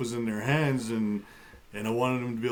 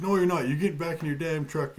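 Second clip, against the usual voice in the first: retold yell; 5 semitones higher than usual. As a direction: bark the order back as she did, hammed-up. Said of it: "like, yelling at me".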